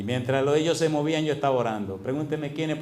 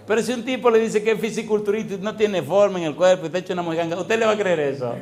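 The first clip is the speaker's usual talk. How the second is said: higher, louder, heated point; animated preaching; 5 semitones higher, 5 dB louder than usual. Real, not acted. Preacher driving the point to the congregation, higher and louder. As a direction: drive the point home with energy.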